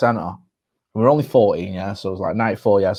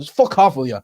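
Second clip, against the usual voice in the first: Roy Keane; 3 dB louder than usual. Retold or imitated. Guest retells Keane rebuffing his mate, mock angry outburst. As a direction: imitate a footballer snapping at young fans. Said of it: "genuinely that angry".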